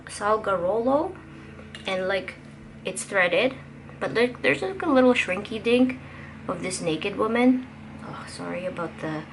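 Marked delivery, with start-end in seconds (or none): 2.9-7.7 raised voice over outside noise; yelling over leaf blower. Real, not acted. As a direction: push the voice over a loud blower. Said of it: "oh, leaf blower, people".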